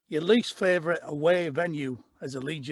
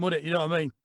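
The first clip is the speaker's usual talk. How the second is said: put-on Yorkshire accent; 3 semitones lower, 4 dB quieter, much faster than usual. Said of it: "Proper Yorkshire accent".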